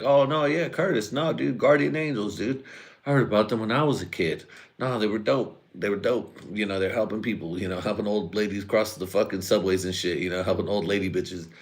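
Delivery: mock the uncle talking about the Guardian Angels; hammed-up uncle voice. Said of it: "He doesn't talk like that".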